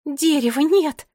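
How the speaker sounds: slow, high, loud announcement; drawn-out alarm; dismayed cry. A narrator's reading. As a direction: cry out the bad news. Children find their tree gone.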